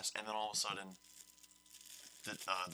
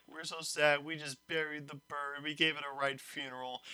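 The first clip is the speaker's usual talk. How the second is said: higher mock-mournful voice; mock sad students; 4 semitones higher than usual. Students telling teacher about the funeral, mock-mournful. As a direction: whine it like grieving kids. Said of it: "go over and like".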